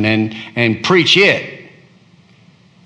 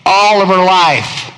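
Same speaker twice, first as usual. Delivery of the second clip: high, loud and slow; anguished lament; 5 semitones higher, 3 dB louder, slower than usual. Acted. Preacher voicing Jeremiah's wish never to be born, loud lament. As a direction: wail the wish to heaven.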